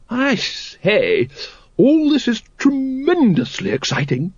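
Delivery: very high, gushing excited lady; thrilled lady. A narrator's reading. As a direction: exclaim with delight in a high lady's voice. Lady Ramkin voiced, thrilled.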